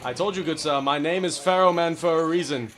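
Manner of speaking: loud, pompous gentleman; mock gentleman duelist. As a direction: boast like a courtly duelist. Duel taunts in gentleman voice.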